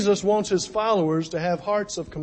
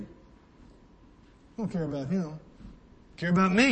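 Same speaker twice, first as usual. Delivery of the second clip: mock selfish Cain. Voicing Cain's selfish heart.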